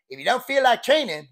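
light attempt at the bodybuilder's accent; a half-hearted try at the bodybuilder's accent; Ronnie Coleman accent. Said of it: "I'm trying my best to do the accent".

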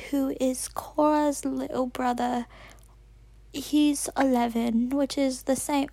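an American girl holding a mock British accent; put-on British accent. Kid podcaster dedicating her show to Oscar, British accent. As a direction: keep up a playful fake British accent all the way. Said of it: "speak in a British accent 'cause he's never heard my real voice".

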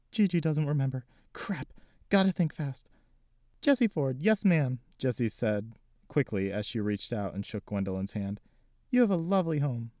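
put-on high, quick young woman; Jessie's voice. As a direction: hurry and cover nervously. Jessie voiced, thinking fast.

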